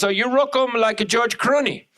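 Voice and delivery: imitated neighbor with Asian accent; mock Asian accent. Neighbor flattering the comic, mock Asian accent. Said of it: "She goes".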